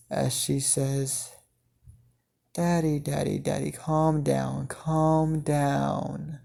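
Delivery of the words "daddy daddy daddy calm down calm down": soft, eerily calm coaxing; quiet, calm menace toward her father; calm, sadistic tone. Acted. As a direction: soothe him like a sadist enjoying it. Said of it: "in a very calm and a little bit of a sadistic tone".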